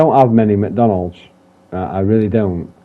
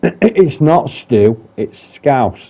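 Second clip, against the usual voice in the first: slow, higher, mock-emphatic correction; girlfriend's correction; 4 semitones higher, 3 dB louder, much slower than usual. Quoting his girlfriend insisting it's scouse, slow and emphatic. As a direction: drag it out like a partner setting you straight. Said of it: "As my girlfriend says it".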